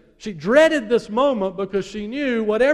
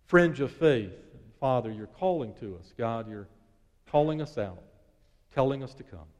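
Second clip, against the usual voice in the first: earnest prayer; 2 semitones lower than usual. Acted. Leads a closing prayer.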